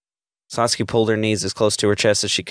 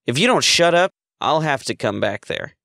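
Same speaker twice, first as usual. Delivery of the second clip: threatening; 6 semitones higher than usual. A narrator's reading. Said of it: "he threatened".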